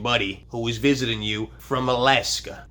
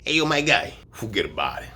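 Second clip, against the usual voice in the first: Brooklyn accent. Shown as a demonstration. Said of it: "What you say to them is you say".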